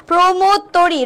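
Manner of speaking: "প্রমোদ তরি" said "promod tori", o like ও; closed o pronunciation. Shown as a demonstration. Teacher confirming the right option, "প্রমোদ তরি" with closed o. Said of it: "আমরা একটাই পাইলাম সঠিক উচ্চারণ".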